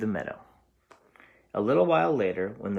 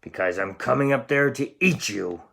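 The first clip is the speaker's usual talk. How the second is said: mild troll roar; 2 semitones higher, 4 dB louder than usual. Acted. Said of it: "roared the troll".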